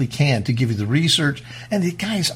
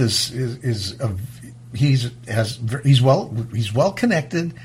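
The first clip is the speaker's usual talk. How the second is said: stuttering, repeating words; 2 semitones lower than usual. Real, not acted. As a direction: stumble over the words. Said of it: "And I'm stuttering a little bit".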